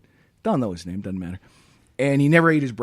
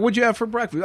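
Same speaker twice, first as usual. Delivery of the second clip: put-on New York accent; 8 semitones higher, faster than usual. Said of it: "say that in the accent too".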